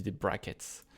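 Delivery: "brackets" said with a French accent, rolled r; English word in French accent. Shown as a demonstration. Teaching his viewers, says "brackets" with a French accent. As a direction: say "brackets" the French way, self-mocking. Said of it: "avec mon super accent".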